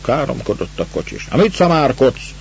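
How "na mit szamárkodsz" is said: pitched-up grumble at the coachman; grumbling. A narrator's reading. Master grumbles at the coachman in the sleigh, irritated. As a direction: snap it out higher, annoyed. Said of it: "mordult föl".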